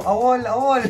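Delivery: loud laughing shout. Retold or imitated. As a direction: call out awol with a laugh. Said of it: "iba sumisigaw". (pasigaw na may tawa)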